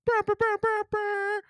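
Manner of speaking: high mimicked air horn; stuttered horn burst between DJ lines. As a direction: toot out a DJ horn stab. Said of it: "let me D J it up now".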